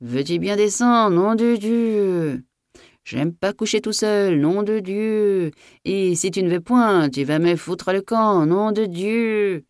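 high bellow with long-drawn oaths; vociferating. A narrator's reading. Master ordering the maid down to his bed, vociferating. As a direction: rant high, stretching each oath slowly. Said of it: "il vociféra".

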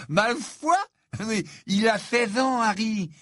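put-on a high, disbelieving boy's voice; incredulous Ron. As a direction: play Ron, unable to believe it.

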